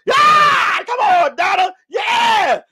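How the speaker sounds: loud, high rodeo holler; mock cowboy whoop. Riding on Donna's back, whooping in mock triumph.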